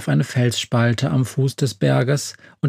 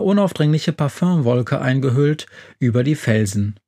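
ordinary delivery, nothing marked

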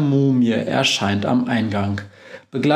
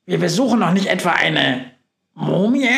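frightened; 6 semitones higher than usual. Acted. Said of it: "fragt Günther erschrocken".

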